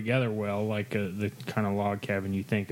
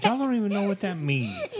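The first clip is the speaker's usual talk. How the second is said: laughing; 11 semitones higher, 3 dB louder than usual. Real, not acted. Laughing after his own joke.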